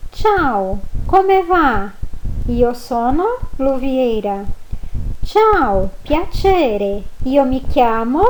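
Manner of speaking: Italian greetings read slowly and clearly; model reading. Shown as a demonstration. Teacher rereading the greetings for students. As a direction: read it again for practice. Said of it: "vou falar novamente pra você".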